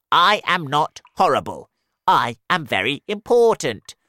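high, loud indignant worm; crying earthworm. Acted. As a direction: protest it loudly. Earthworm defends itself.

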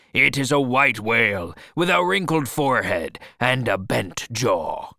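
loud, emphatic description; proclaiming. Acted. Captain describing the whale to his crew, proclaiming. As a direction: declare it firmly to the whole crew.

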